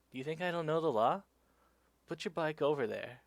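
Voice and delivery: indignant cop. Retold or imitated. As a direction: imitate an officer pulling rank. Cop scolding the cyclist, acted.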